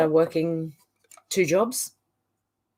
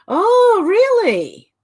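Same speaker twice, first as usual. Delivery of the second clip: high, loud startled "oh, really?"; surprised; 13 semitones higher, 7 dB louder, much slower than usual. Real, not acted. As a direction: genuinely caught off guard, voice jumps up. Reacting to ballot box comment.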